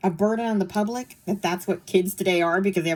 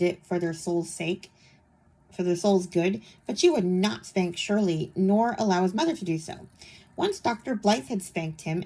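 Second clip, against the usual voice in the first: reading aloud. Acted. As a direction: read it like a storybook. Reads book passage aloud.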